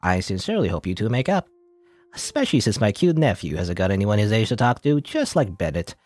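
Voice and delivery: nasally nerdy doctor; a light nasal nerd voice. Acted. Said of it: "gonna give him the voice anyway".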